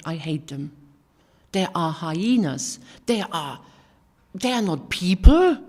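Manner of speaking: hyenas line bitter, last words loud; retold angry rant. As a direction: spit it out, then explode. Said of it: "I was so angry".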